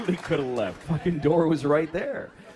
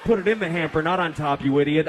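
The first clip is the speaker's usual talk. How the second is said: mock nagging wife; 6 dB louder, faster than usual. Wife nagging, quoted in fantasy.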